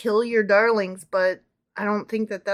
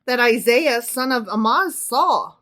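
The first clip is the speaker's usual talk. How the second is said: louder, declaimed Bible verse; dramatic scripture reading; 4 dB louder than usual. Acted. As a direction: announce the prophecy with emphasis. Reads scripture aloud to co-host.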